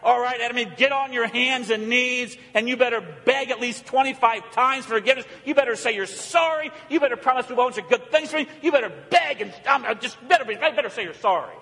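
lightly voiced nagging parent demanding sorry. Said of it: "demand repentance like sometimes we do as parents".

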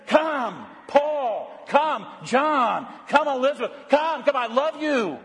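high, tender calling voice; God calling tenderly. Acted. God calling his children by name, tender and high. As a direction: call each name like a loving father.

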